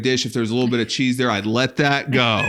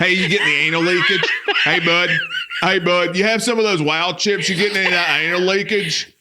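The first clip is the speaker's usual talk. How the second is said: comic redneck snack fan; hammed-up bro; 4 semitones higher than usual. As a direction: play a good ol' boy bragging about leaking. Acted redneck chip eater.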